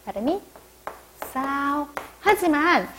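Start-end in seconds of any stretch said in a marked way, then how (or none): 1.3-1.9 싸오 with a slightly tense s; tense s sound. Shown as a demonstration. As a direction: say 싸오 with the s between ㅅ and ㅆ. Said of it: "약간 쌍시옷 느낌이".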